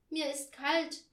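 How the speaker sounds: put-on high, slow child's complaint; complaining. A narrator's reading. Barbie to her scolding mother, complaining. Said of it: "beschwerte sich Barbie".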